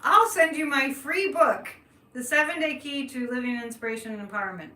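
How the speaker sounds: mock infomercial host; infomercial pitch. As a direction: sell the free book like a late-night infomercial. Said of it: "I feel like I'm on an infomercial".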